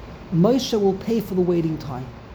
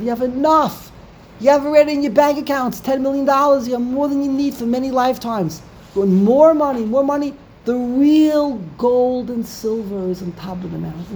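louder and higher, a fast fed-up rebuke; exasperated scolding; 4 semitones higher, 4 dB louder than usual. Acted. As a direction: scold them like a leader at the end of his patience. Moshe scolding the people over gold.

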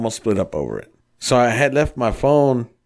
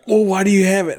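mock suspicious girlfriend; 9 semitones higher than usual. Girlfriend voiced in retold fight.

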